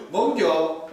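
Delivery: loud, very short Gyeongsang question; Gyeongsang dialect. Shown as a demonstration. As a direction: throw it out curtly in Gyeongsang dialect. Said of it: "이렇게 그냥 아주 짧아버려요". (크고 짧은 경상도 사투리)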